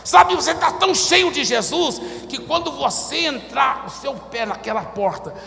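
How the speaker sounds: shouted high sermon climax; fiery preacher shouting to the congregation; full-force preaching. Acted. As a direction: preach it to the rafters.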